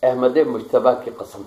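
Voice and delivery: measured, declaiming poetry recital; stately nazm recitation. Acted. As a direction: recite each line with weight. Poet recites his nazm. (پُروقار نظم خوانی)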